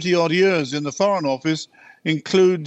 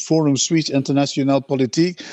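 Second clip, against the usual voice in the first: French accent. Shown as a demonstration. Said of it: "I forgot my French accent".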